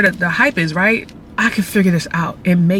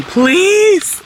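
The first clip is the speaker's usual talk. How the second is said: laughing panic; 12 semitones higher, slower than usual. Real, not acted. Panics about recording in bank.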